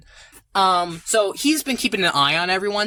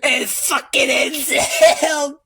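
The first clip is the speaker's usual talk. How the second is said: excited rant; 4 semitones higher than usual. Real, not acted. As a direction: pile on the action breathlessly. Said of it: "rambling with excitement".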